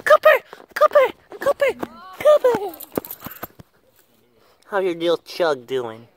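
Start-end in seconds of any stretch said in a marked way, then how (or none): 0.1-2.8 high loud call to the dog. Real, not acted. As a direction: yell the dog's name, high and loud. Calling the dog loudly.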